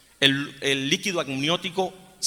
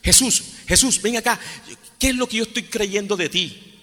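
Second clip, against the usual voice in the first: slow, higher pleading prayer to Jesus; a lightly raised, slowed prayer voice; prayerful plea; 4 semitones higher than usual. Acted. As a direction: beg Jesus slowly, lifting the voice. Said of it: "tenemos que preguntarnos es".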